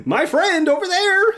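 high-pitched friendly put-on voice; imagined Charles greeting. Charles hailing the player, high friendly voice. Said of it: "He's like".

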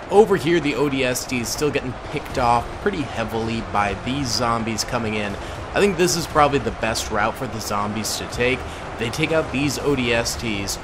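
talking with a retainer in; slight lisp from a retainer. Real, not acted. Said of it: "Sorry, I have my retainer in".

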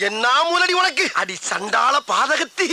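loud, heated scolding; angry scolding. Acted. Conned man scolding the old woman, loud angry rant. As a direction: tear into her for the con.

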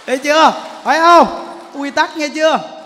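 loud, pressing rhetorical questions; loud challenge. Real, not acted. Monk to lay listeners, pressing them loudly. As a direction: demand agreement loudly from the crowd.

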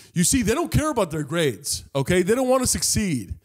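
mock the teacher scolding the class; lecturing teacher. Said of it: "I could hear her go".

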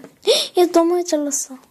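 high gasp then a loud dismayed cry; real surprise at cutting too much; startled. Real, not acted. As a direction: caught off guard by her own mistake. Realizes she cut too much.

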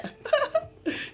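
sudden high-pitched laugh; burst of laughter. Real, not acted. Streamer laughing at his own slip, a high burst of laughter. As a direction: crack up at the wrong name.

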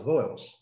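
"vowels" in one falling beat; English "vowels" squeezed into a single syllable. Shown as a demonstration. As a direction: say "vowels" without splitting it. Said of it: "uma sílaba só".

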